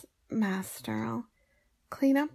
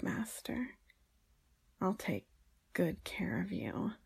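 seductive whisper. Acted.

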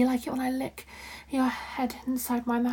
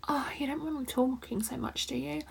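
mouth full; 7 dB quieter than usual. Acted. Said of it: "Even with my mouth full".

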